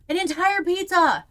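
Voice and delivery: loud high disbelieving cry; astonished. Real, not acted. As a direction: shout it in shock. Reacting to chat.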